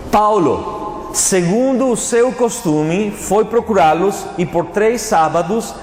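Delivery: slow, deliberate Bible reading with drawn-out words; scripture reading. Acted. Preacher reading Paul's words to the congregation, slow scripture reading. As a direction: proclaim the verse slowly, stretching key words.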